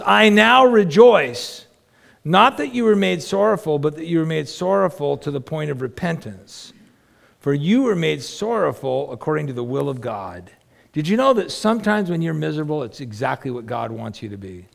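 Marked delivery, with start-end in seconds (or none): 0.0-10.5 preaching scripture. Acted. Reading Paul with force.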